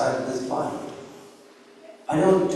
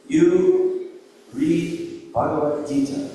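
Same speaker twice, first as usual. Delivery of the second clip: guru's command; 2 semitones higher, much slower than usual. Retold or imitated. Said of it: "given an instruction by his guru".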